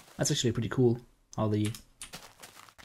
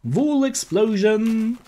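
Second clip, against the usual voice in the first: excited shout; 8 semitones higher, 5 dB louder, slower than usual. Real, not acted. Sheep blown up by creeper.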